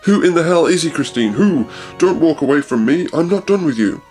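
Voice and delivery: hammed-up jealous yell; screaming. Husband accusing wife of cheating, mock yelling. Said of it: "Raoul was screaming at Christine".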